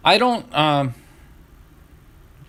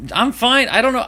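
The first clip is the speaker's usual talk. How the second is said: strained, high and louder after choking; throat still catching, push the words out; just swallowed a bug; 10 semitones higher, 5 dB louder than usual. Real, not acted. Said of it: "my throat just stopped working".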